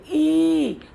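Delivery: ई drawn out slowly and evenly; unhurried long vowel. Shown as a demonstration. Teacher tells learners to say it at ease, ई held long. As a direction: take time, stretch ई long. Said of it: "आराम से बोलो".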